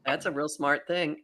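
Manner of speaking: sarcastic. Real, not acted. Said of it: "She said sarcastically".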